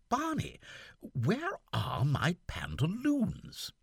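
lightly voiced young gentleman puzzled; Seaforth's voice. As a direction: fret aloud as the lieutenant.

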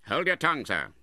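loud, high, sharp command; angry rebuke. A narrator's reading. Uncle silences his nephew, angry. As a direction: shut him up angrily.

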